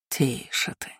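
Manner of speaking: hissing whisper of darkness; demonic whisper. A narrator's reading. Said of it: "прошипела тьма".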